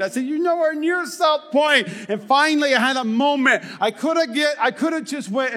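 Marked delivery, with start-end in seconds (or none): 0.2-1.9 exasperated shout. Retold or imitated. Telling a lost driver off.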